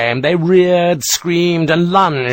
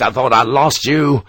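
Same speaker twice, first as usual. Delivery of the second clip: heartfelt relief. Acted. Sharp greets Harper after fearing him dead, relieved. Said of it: "relief at Harper's survival was heartfelt".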